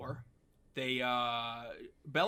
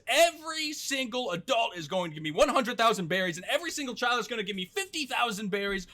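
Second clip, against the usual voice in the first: loud, raised, hammed-up villain threat; menacing villain; 5 semitones higher, 3 dB louder than usual. Fish man extorting the islanders, loud mock-villain proclamation. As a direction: proclaim the demand and stretch the final threat.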